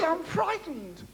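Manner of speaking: high, mock-timid girl's voice; frightened girl. Comic telling: girl on the dark lane, timid high voice. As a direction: pipe it up like a scared young woman.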